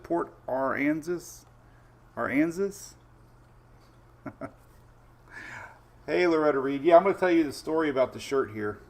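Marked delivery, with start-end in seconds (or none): 0.0-2.9 slow, careful "Aransas", ar-AN-zus, as a question; "Aransas" tried out tentatively, ar-AN-zus; questioning pronunciation. Shown as a demonstration. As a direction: sound out "Aransas" as ar-AN-zus, checking it. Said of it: "Is that how you pronounce it".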